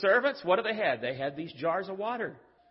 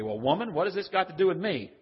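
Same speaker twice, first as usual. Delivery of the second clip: curt, brushing-off "Well, woman"; a blunt, dismissive retort. Shown as a demonstration. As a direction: say it like she's a nuisance. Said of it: "It's not the way he said it".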